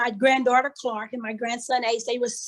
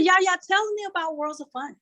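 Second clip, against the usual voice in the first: put-on excited child; 5 semitones higher than usual. Granddaughter's voice in story.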